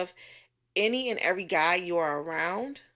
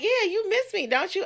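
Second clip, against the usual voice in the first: mock flirting; 12 semitones higher than usual. Retelling a man's flirty pick-up line.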